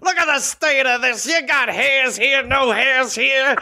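drill sergeant. Acted. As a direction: scream insults at a new recruit. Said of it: "like a drill sergeant would to a new recruit".

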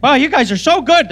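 put-on childlike voice.

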